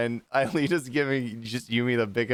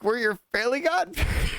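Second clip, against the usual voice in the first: high, put-on cartoon voice; cartoon godparents' announcement; 10 semitones higher than usual. Cosmo and Wanda pop out of the fishbowl, cartoonish announcement.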